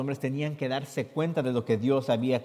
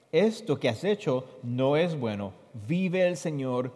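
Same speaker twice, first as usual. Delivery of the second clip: scripture reading; 2 semitones higher, 3 dB louder than usual. Acted. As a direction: read the verses out for the listeners. Reads Spanish scripture translation.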